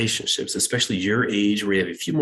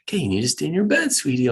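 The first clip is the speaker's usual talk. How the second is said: put-on higher, fast sweet coaxing to a child; kind voice; 4 semitones higher, faster than usual. Parent sweetly coaxing a child to stay in bed, kind voice. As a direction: coax the kid back to bed, sugary. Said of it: "we always start out with a kind voice".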